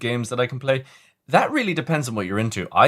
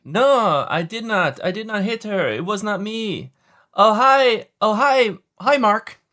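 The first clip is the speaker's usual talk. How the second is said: movie quote imitation; 11 semitones higher, 4 dB louder, slower than usual. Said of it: "he's like".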